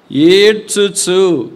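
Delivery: very slow, stretched ఏడ్చుచు; slow mournful stretch on the word; drawn-out weeping word. Acted. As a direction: let ఏడ్చుచు linger mournfully. Preacher dwells on weeping.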